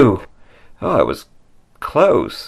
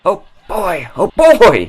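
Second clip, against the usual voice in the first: excited; 6 semitones higher, 4 dB louder than usual. Acted. Excited at the door.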